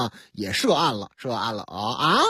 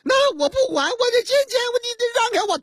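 angry insistence; much faster than usual. Acted. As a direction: yell to force your way past the guard. Husband pushes past guard.

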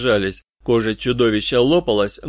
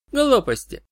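sharp high retort; firm objection; 14 semitones higher than usual. A narrator's reading. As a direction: cut him off decisively, high. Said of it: "решительно возразила".

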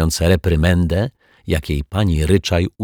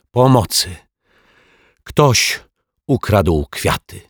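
agitated cry for help; 3 semitones higher, slower than usual. A narrator's reading. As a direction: raise the alarm in a fluster. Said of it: "zaaferowany pan Mietek". (zaaferowane wołanie o pomoc)

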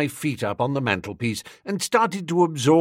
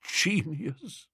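softly murmured again, rising at the end; 3 semitones higher, 8 dB quieter than usual. A narrator's reading. Old Bittlesham repeating the praise, a soft rising murmur. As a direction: breathe it out in quiet awe. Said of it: "murmured old Bittlesham".

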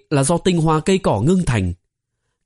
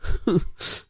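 soft sob; 5 semitones higher, 7 dB quieter than usual. Acted. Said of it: "lại nghe thấy nữ đệ tử nức nở".

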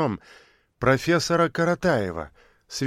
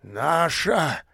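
insistent; 2 semitones higher than usual. A narrator's reading. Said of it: "настойчиво повторил бобёр".

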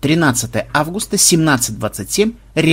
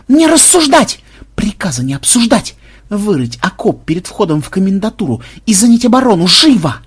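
high, loud officer's tirade; yelled orders; 6 semitones higher, 4 dB louder than usual. A narrator's reading. Fake superior ordering officer to dig trenches, yelling. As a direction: bellow orders that allow no argument. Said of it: "заорал Ксенобайт".

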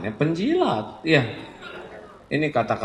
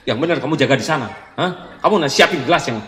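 loud, fast scolding of staff; fierce boss; 3 semitones higher, 5 dB louder, much faster than usual. Retold or imitated. Boss scolding employees before the superior arrives, fierce. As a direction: bark orders at the staff. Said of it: "galak luar biasa sama karyawannya".

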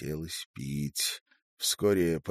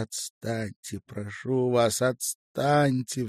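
acted tearful pleading, pitched up; sobbing; 7 semitones higher, 5 dB louder, slower than usual. A narrator's reading. Crying woman pushing man away, sobbing. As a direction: plead through sobs, building louder. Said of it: "всхлипывала она".

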